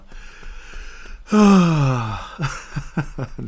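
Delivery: long, loud exhale; loud sigh. Real, not acted. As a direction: let out a big drawn-out sigh. Loud exhale after joking.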